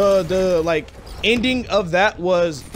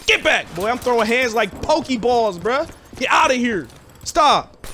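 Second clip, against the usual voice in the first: higher, fast hyped play-fighting; mock fight; 5 semitones higher than usual. Kid in detention pretending to fight, higher hyped mock yelling. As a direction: hype yourself up for a fake brawl.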